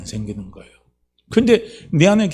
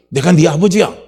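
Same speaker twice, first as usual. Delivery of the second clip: loud, emphatic fatherly voice; raised-voice declaration as a father; forceful fatherly declaration; 3 semitones higher, 6 dB louder than usual. Acted. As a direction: proclaim it with full conviction. God repeats it forcefully.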